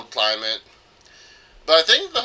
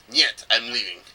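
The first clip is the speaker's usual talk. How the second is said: mock Russian accent; 2 semitones lower than usual. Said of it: "it wasn't a Russian accent".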